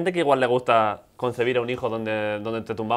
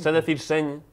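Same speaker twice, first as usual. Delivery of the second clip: mock Catalan accent; slower than usual. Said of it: "tengo buen acento catalán".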